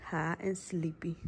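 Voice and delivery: soft whisper beside someone sleeping. Real, not acted. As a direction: keep it to a hushed whisper. Sister whispering near sleeping patient.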